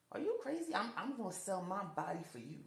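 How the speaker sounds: incredulous. Retold or imitated. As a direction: throw it back at him, incredulous. Refusing the pimp's offer.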